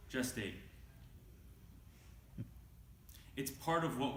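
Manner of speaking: measured, deliberate poem delivery with pauses between phrases; poetry reading. Acted. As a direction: read it as a poem, weighing each line. Reads own poem aloud.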